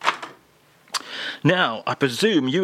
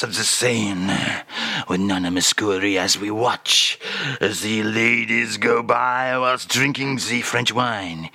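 lower, slow, with a whispered stretch; dreamy mock French Charles; 6 semitones lower than usual. Charles dreams of the Seine to the host in a lower mock French voice. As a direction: reminisce like a lazy French romantic.

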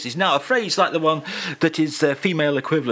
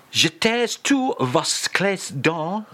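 slow, measured French phrase reading; showy French read-out; 3 semitones higher, slower than usual. Shown as a demonstration. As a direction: savour each French word slowly. Host reads French phrase out showily.

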